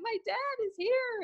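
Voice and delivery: slow, high imitation of wailing; mock wail. Wailing wife telling her husband, mock wail. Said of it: "I'm wailing, I'm crying".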